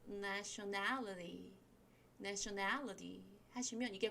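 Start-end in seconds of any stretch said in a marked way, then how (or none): 0.1-1.5 nationality with the T softened almost to a D; weak, flapped T in "nationality". Shown as a demonstration. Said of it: "T 발음이 좀 약화돼서". 2.2-3.2 nationality with a light, weakened T; softened T. Shown as a demonstration. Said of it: "T 발음이 좀 약화돼서".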